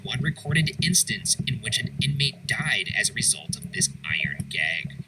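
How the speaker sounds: measured, scripted voice-over; documentary narration. A narrator's reading. Host telling viewers of prison punishments, documentary narration. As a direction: narrate grim history with deliberate emphasis.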